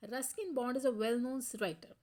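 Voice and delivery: very slow, each word spaced out; slow dictation. Shown as a demonstration. Teacher reading the example sentence aloud to students, very slow. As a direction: spell it out for the class.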